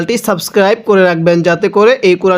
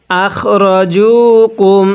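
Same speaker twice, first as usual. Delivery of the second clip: slow recitation; much slower than usual. Shown as a demonstration. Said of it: "কিভাবে শিখব?".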